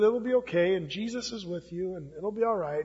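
soft, gentle reassurance; soothing mother. Retold or imitated. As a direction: softly comfort a frightened child. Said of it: "soothed him and said".

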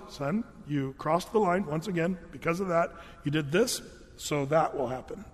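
even, unemotional dad voice; calm matter-of-fact. Retold or imitated. Dad calmly explaining the consequence, lightly voiced. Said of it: "It was just".

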